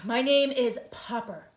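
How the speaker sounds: loud, slow correction; loud slow shout. Acted. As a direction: yell it slowly to be heard. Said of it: "shouted Mister Popper".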